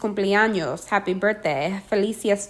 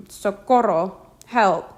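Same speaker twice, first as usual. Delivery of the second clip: loud cry for help; 4 dB louder, slower than usual. Shown as a demonstration. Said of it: "here's what you need to say and loudly".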